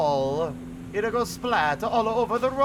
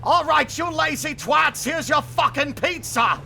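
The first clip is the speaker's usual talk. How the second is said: high, loud monster shout; hammed-up monster yell; 9 semitones higher, 4 dB louder than usual. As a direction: bellow like a giant pizza monster. Monster voiced in story.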